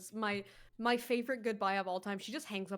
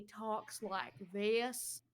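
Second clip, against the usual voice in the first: mock Texan drawl; much slower than usual. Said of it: "he draws out all his words".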